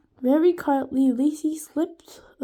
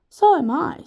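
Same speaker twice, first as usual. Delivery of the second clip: flirty; 4 semitones higher, 7 dB louder than usual. A narrator's reading. Flirting teacher.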